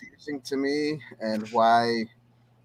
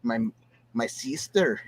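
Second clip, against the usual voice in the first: put-on Latino accent; 2 semitones lower than usual. Film hero asks around a bar, attempted Latino accent. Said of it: "if you're doing a Latino accent".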